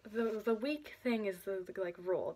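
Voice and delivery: words broken by a hiccup. Real, not acted. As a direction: hiccup mid-phrase. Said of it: "I just hiccuped".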